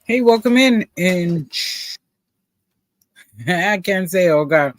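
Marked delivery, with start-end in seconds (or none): 3.5-4.7 talking through peanut butter; mouth full of peanut butter. Real, not acted. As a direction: mouth full, words sticky. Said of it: "I got peanut butter in my mouth".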